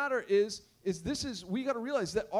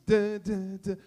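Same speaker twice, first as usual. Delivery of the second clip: mock keyboard notes; 4 dB louder, slower than usual. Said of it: "that's the keys".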